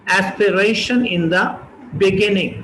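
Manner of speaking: slow and deliberate; slow model reading. Shown as a demonstration. Teacher reads heading slowly. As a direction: read the heading slowly for learners.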